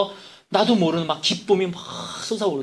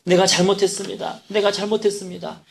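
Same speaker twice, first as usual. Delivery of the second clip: mock crying apology; 5 semitones higher than usual. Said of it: "엉엉 울기 시작을 하더랍니다".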